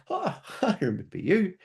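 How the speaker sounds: high, giggly cat greeting; a cat happily recognising an old friend. Pretend. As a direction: squeak it out like a delighted cat. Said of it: "the cat looks up and goes".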